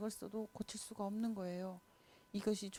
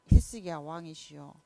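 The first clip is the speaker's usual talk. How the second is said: prophet calling out; 4 semitones lower, 9 dB louder than usual. Acted. Prophet calls the king.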